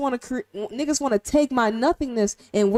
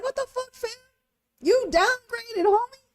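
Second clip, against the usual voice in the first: mock scolding a player; 10 semitones higher than usual. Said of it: "I'm just like".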